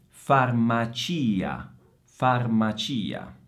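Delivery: slow FARMACIA, leaning long on CI; stress on the I. Shown as a demonstration. Teacher warns students about the accent, slow stressed-I FARMACIA. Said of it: "ma occhio all'accento".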